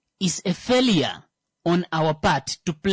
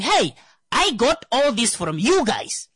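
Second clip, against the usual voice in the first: raised-pitch, mildly yelled protest; mock yelling; 5 semitones higher than usual. Firstborn arguing back at the parents, mock yelling. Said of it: "They start yelling at you".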